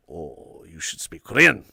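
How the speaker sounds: imitating a put-on Asian accent; low start, then put on the Asian accent; mock Asian accent. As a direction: act out someone faking an Asian accent. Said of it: "like, an Asian accent on".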